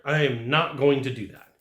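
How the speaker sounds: firm, each word distinct; very clear refusal. Shown as a demonstration. Salesman modelling a reply to a client, very clear refusal. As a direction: make the refusal unmistakable. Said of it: "You're making it very clear".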